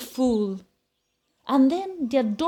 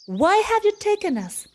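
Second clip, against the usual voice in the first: Billy's question; 8 semitones higher than usual. Acted. Billy asks the captor.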